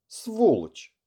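angry curse. Acted. Wounded lieutenant bursts in cursing.

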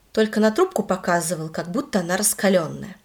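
usual speaking voice

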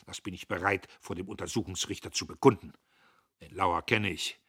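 laut und hoch, wütend herausgedonnert; donnernd. A narrator's reading. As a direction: wie ein Offizier auf dem Kasernenhof donnern. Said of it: "Der Major donnerte". (der Major donnert Diederich zornig an)

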